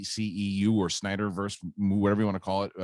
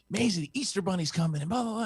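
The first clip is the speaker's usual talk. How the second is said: imitating daughter; 11 semitones higher, faster than usual. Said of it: "she wakes up this morning and she's like".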